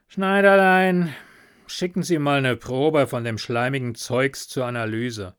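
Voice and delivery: brisk police inspector calling out. Acted. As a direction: call the assistant like a gruff inspector. Inspector gives an order.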